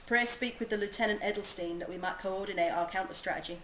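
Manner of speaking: put-on light, imperfect Yorkshire accent for a game soldier. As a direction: read the commander's lines in a so-so Yorkshire lilt. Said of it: "My Yorkshire accent isn't perfect".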